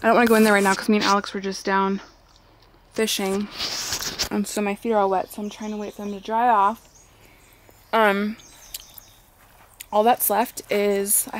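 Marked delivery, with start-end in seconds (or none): 0.0-6.9 talking while chewing gum; words around a wad of gum. Real, not acted. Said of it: "I just put gum in my mouth".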